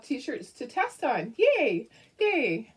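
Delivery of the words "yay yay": a bright little cheer, louder and higher; excited cheer. Real, not acted. Cheering to her viewers, louder and higher. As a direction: celebrate finding the shirts. Happy she has test shirts.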